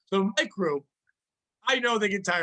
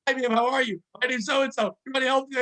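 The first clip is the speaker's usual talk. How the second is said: cheery greeter; 5 semitones higher than usual. Retold or imitated. Staff's gauntlet greeting to old lady.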